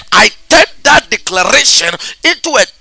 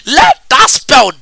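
shouting; 4 semitones higher than usual. Real, not acted. Prayer decree shouted over listener.

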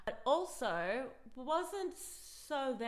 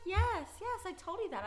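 smug laughing; 10 semitones higher, 5 dB louder than usual. Retold or imitated. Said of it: "I was like".

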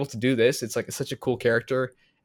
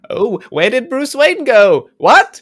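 mock bewildered bystander; 11 semitones higher, 12 dB louder, much slower than usual. Mocking the reveal scene.

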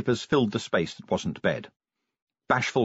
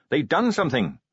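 put-on higher eager young Carrot voice; 4 semitones higher than usual.

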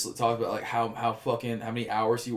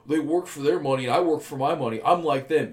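mocking imitation; 2 semitones higher, 4 dB louder than usual. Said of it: "Just like".

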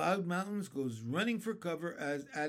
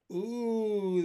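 high startled ooh; ladybug voice; 6 semitones higher, 5 dB louder than usual. A narrator's reading. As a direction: squeak it out nervously. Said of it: "the ladybug said".

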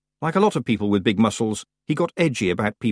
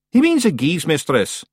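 high, louder Scots correction; exasperated Scots clansman; 8 semitones higher, 5 dB louder than usual. Acted. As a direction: correct your daft brother to the mistress. Rob corrects his brother.

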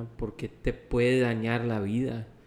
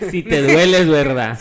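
laughing; 4 semitones higher, 11 dB louder than usual. Real, not acted. Laughing at the fat joke.

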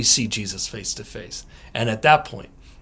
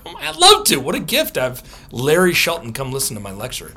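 thrilled reply; 4 dB louder than usual. Retold or imitated. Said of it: "I was like".

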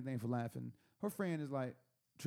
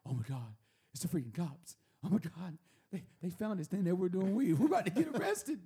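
rising panic, getting louder; panicked; 2 semitones higher, 4 dB louder than usual. Retold or imitated. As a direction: climb into a paranoid panic. Paranoid panic quote.

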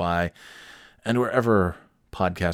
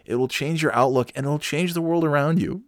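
rising higher into cheesy uplift; mock inspirational; 7 semitones higher than usual. Host parodying self-help talk, cheesy rising uplift. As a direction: oversell it until you nearly crack up. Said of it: "I can't even say that without cracking up".

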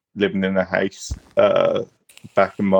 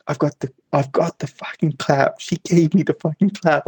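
put-on northern accent; 7 semitones higher than usual. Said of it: "like, thick northern accent".

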